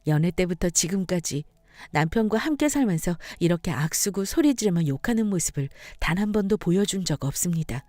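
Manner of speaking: ordinary delivery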